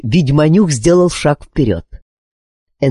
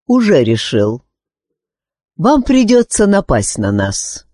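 composed, unforced reply; calm; 5 semitones higher than usual. A narrator's reading. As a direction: answer evenly without raising volume. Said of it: "спокойно ответил чародей".

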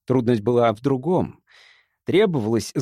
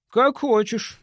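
mild; 10 semitones higher, slower than usual. A narrator's reading. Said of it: "мирно ответствовал он".

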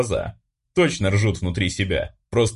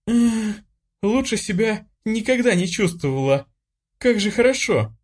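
high, giddy, elated cry; girl twirling, thrilled with her new strength; ecstatic; 14 semitones higher than usual. Acted. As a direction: whirl around bursting with joy. Spinning around the room happily.

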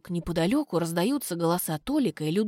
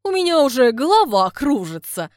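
louder laughing complaint; 4 semitones higher, 8 dB louder than usual. Acted. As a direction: laugh it out loud. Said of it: "смеётся Люда густым голосом".

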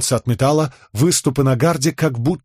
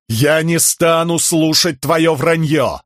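higher, slow, forceful outcry; shouted; 6 semitones higher, slower than usual. A narrator's reading. Helaran shouts at his father, high and forceful. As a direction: shout him down, refusing to listen. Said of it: "выкрикнул Хеллоран".

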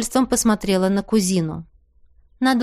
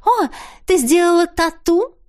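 высокое любопытное восклицание; выше, оживлённо удивляясь; с интересом; 8 semitones higher, 3 dB louder than usual. A narrator's reading. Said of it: "воскликнула Теа с интересом". (Теа с интересом восклицает)

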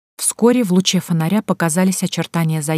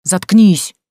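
louder angry bark in a rough voice; roar; 6 dB louder than usual. A narrator's reading. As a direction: snap it at her like a roar. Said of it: "Снова заревел бомж".

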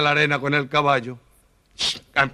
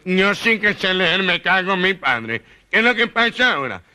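1 gangoso protest; 4 semitones higher than usual. Acted. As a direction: insist you can read, offended.

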